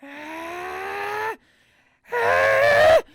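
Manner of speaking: high, rising mock scream; Doug Walker scream. Imitating a YouTuber screaming on camera, mock scream. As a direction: scream loud and shrieky, swelling into it. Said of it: "he started screaming on camera going".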